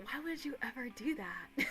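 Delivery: imitating stepdad in a whisper; mock whisper. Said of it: "He's like".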